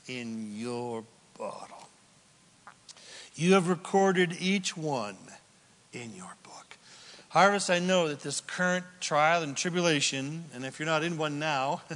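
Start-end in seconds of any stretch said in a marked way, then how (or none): 0.1-6.8 soft, breathy close of the verse; hushed to a whisper. Acted. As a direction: let the psalm fall to a whisper. Reading psalm, dropping to whisper.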